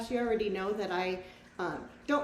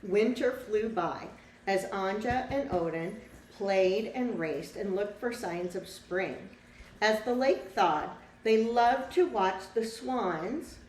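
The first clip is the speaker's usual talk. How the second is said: lively storybook read-aloud for a class; reading to children; 4 dB louder, slower than usual. A narrator's reading. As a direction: tell the story to the children, bright and clear. Teacher reads picture book aloud.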